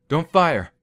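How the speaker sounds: high, frightened plea; shaky high cry; voice shaking. Acted. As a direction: beg him not to shoot. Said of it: "His voice shook".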